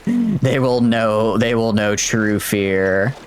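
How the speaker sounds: slow, ominous mock threat; hammed-up dramatic warning. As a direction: drag it out like a movie villain. Dramatic meme line.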